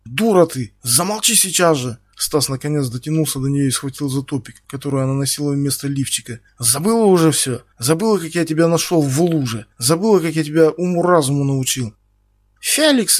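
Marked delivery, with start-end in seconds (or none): 0.0-2.0 higher, louder command; angry shout. Acted. Стас кричит Ксюше замолчать. Stas orders her to shut up. 6.6-12.0 louder, higher hammering reproach; angry reproach. Acted. Стас яростно упрекает Ксюшу. Stas grabs her, shouting. 12.6-13.2 very high, loud squeal; hysterical shriek. Acted. Ксюша истерично визжит, зовя Феликса. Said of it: "истерично взвизгнула Ксюша".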